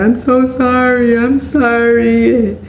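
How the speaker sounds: high, drawn-out pleading sorry; mock apology. Boyfriend after hurting her, mocked as pleading and sorry. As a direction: imitate him begging forgiveness. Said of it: "he came talking about".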